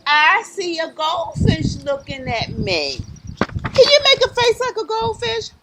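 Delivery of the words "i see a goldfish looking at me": rhythmic picture-book refrain; reading to children. Acted. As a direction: chant it invitingly for little listeners.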